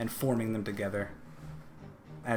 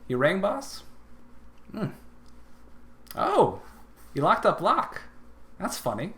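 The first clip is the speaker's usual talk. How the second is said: dim Lucky voice; 7 semitones higher, 8 dB louder than usual. Acted.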